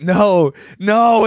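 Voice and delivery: high, pleading protest; mock distress. Dreamer told they are only dreaming, protesting in dismay.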